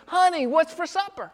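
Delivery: a husband calling from the doorway. Retold or imitated. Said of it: "he opens up the door and he says".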